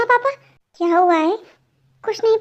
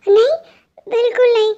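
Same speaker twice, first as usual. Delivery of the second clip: a firm no through tears; crying refusal; 2 semitones higher, 4 dB louder than usual. Acted. Sister crying, refuses to let brother tell parents. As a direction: refuse her brother while sobbing. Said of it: "आप क्यों इतना रो रहे हो".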